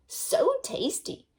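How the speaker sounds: high, slow savoring wolf; wolf patting his belly, savoring; gloating wolf. Acted. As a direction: relish every syllable. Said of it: "he said".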